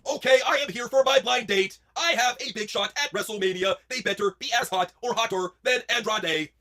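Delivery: high, slow, over-enunciated declaiming; stagey, drawn-out diva announcement; Charlotte Flair. Acted. Charlotte arriving for her blind date, grand slow declaiming. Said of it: "Impression Charlotte Flair goes on a date".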